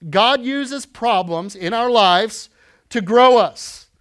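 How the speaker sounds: slow and deliberate, stress on God and grow; slow emphatic. Real, not acted. Pastor giving church notes, slow emphatic. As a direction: spell it out slowly for note-takers. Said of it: "you can write this down".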